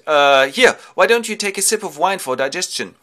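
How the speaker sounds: loud, high coaxing offer; butter up the giant with wine; sly offer. Acted. Ulysses tempts the Cyclops with wine, loud coaxing.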